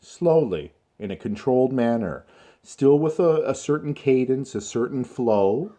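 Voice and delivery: measured teacher demonstrating careful speech; slow down, keep a steady cadence; slow, controlled manner. Shown as a demonstration. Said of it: "speak it the way I'm speaking it".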